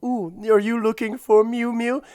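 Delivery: mock creepy taunt; creepy villain purr. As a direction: coo it like a gloating villain. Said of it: "And he".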